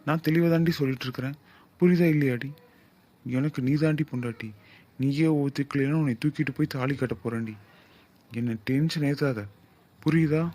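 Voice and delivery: pushy lover losing patience, loud; angry scolding. Acted. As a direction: lay into her, voice climbing on புரியுதா. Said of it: "ஏன் ரொம்ப கோவமா பேசிட்டு இருக்கீங்க".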